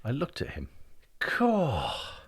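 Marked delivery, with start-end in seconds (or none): 1.2-2.2 contented reflective. Acted. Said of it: "in a sort of contented, reflective voice".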